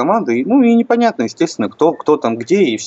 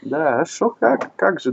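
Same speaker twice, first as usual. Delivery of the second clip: put-on higher, lighter Yiddish-accented Russian; 5 semitones higher, 4 dB quieter than usual. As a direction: Yiddish accent, rising questioning lilt. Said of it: "И все договорились за еврейским акцентом".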